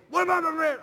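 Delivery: high, loud teasing yell back; mock taunt. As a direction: fire the taunt back at him.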